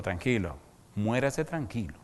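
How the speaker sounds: slow, soft soothing words; calm a dying man gently; soothing reassurance. Retold or imitated. Pastor consuela al moribundo. (el pastor calma al moribundo, suave y lento)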